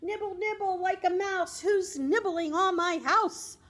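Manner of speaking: high, creaky storybook witch calling out. Acted. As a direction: sing it like a witch peeking out her candy door. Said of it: "And then they hear".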